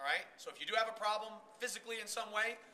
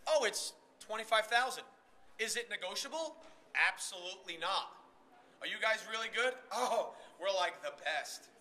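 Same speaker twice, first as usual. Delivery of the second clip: unconvincing pitch. Shown as a demonstration. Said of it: "in my body language, said, we're not the best".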